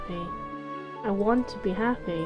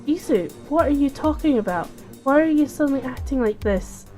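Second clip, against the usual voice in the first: bewildered protest; 4 semitones higher than usual. Acted. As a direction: demand to know what's going on. Confused heroine confronts furious friend.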